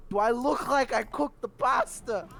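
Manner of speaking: high, slow, loud mock outrage; incredulous retort. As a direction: throw the question back at him in disbelief. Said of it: "I was like".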